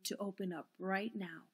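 steel yourself under your breath; quiet resolve. A narrator's reading. Eleanor in the dark working up to a yell, hushed.

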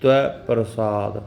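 ਤਵ ਪ੍ਰਸਾਦ slow, ਤਵ with aunkar, dulava ਵ; ਤਵ ਪ੍ਰਸਾਦ drawn out carefully, each syllable clear; correct sampradai reading. Shown as a demonstration. Teacher showing the sampradai reading of ਤਵ ਪ੍ਰਸਾਦ, slow. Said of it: "ਇਸ ਤਰ੍ਹਾਂ ਪੜ੍ਹਨਾ".

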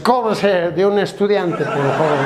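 put-on slow, lightly slurred drunk; drunk passenger. Drunk hands driver a coin, slow tipsy request. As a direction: drag the words out tipsily. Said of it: "Borracho saca una moneda y dice".

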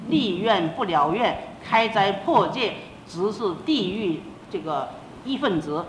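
slow, measured recitation; solemn vow recital. Retold or imitated. Daughter warns her mother of broken vows, solemn and slow. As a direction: recite it slowly, phrase by phrase.

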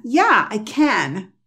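"can" with a long open A, slowly; wrong pronunciation, slow. Shown as a demonstration. Teacher demonstrating how Americans don't say can. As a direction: drag out "Yeah, I can" with a wide A. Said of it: "tampoco lo dicen can".

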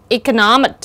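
"Economic" stressed on NOM, the third syllable. Shown as a demonstration. Teacher demonstrating word stress for students, stress on third syllable. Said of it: "nó cũng nhấn vào âm thứ ba".

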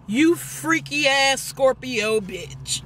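slow, drawn-out name-calling; lightly voiced mother, stretching every word; imitated mama's insult. Daughter imitating mama calling her names, slow scolding. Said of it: "That's exactly what she called me".

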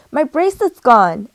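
high, loud cry of alarm, read aloud; storybook scream. A narrator's reading. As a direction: voice a girl's scream without going all out. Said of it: "Emmy screamed".

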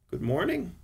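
a drowsy good morning, lilting up high; sleepy wife. A narrator's reading. Wife greets husband on waking, sleepy. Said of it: "she said in a sleepy voice".

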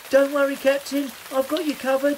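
high, urgent rescuer's call; crying out. A narrator's reading. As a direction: call out brightly to save a friend. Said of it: "cried Victoria".

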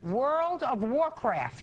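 very slow "World of Warcraft", each word stretched; slowly. Shown as a demonstration. Judge repeating the game's name, very slowly. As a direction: draw out "World" high, then fall through "Warcraft". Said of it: "Say it slowly".

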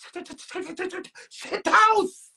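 slow, crying shout of despair; wailing cry. Retold or imitated. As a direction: cry out the words like a lament. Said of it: "I said".

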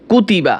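কুতিবা with every vowel short, no drawn-out sound; short quick vowels. Shown as a demonstration. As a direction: keep each syllable of কুতিবা brief and unstretched. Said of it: "দ্রুত উচ্চারণ করতে হবে". (কুতিবা টান ছাড়া দ্রুত উচ্চারণে)

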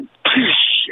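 hissed bottle-smash noise; sudden burst of breathy noise; imitated smash. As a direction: make a sharp crashing hiss.

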